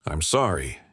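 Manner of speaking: low, choked-up apology. Acted. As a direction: force it out through tears. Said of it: "he choked out".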